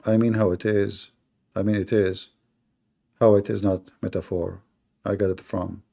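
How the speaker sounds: parroting his stammer, trailing off; mocking imitation. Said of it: "You got it from".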